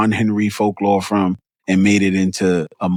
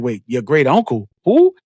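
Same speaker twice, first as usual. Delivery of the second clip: squeaky high outburst of confusion; replaying a scene that makes no sense; shocked disbelief; 4 semitones higher than usual. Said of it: "I was like".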